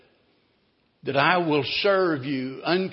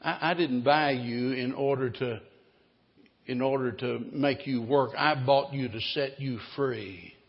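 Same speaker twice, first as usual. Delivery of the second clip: tender reassurance; 2 semitones lower than usual. Acted. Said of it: "He said".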